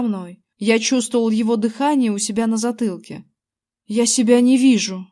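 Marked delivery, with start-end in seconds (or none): 3.9-5.1 mildly frightened, understated; a touch of fright in the voice. A narrator's reading. Invisible Zack cannot see himself, mildly frightened. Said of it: "Его голос звучал испуганно".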